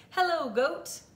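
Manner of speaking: high, cheery duck hello; Duck's greeting. A narrator's reading. Duck greeting Cow from his bike, high and chirpy.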